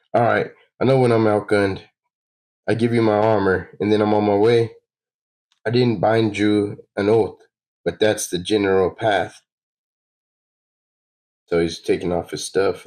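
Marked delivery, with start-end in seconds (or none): 0.1-9.4 lightly voiced, a bit louder resigned surrender; grudging traveler. Player voicing a traveler handing over his armor, grudging. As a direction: give up the armor with a shrug.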